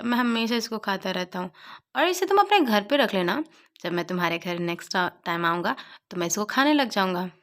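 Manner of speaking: friend begging to keep the candy, puppy-eyed plea; puppy-like pleading. Retold or imitated. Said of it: "पप्पी जैसा answer बना के बोलता है".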